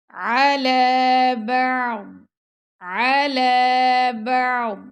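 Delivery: بعض with a full daad kept inside the mouth, slow; heavy daad. Shown as a demonstration. Teacher repeating the correct daad for students. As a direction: hold the daad back, no echo. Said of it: "ضاد کی آواز منہ کے اندر ہی رہ جائے گی".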